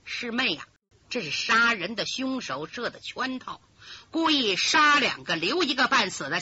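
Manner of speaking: calm, ruthless elder sister disciple; cold schemer. Acted. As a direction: talk down coldly to her junior. Narrator voices cold schemer.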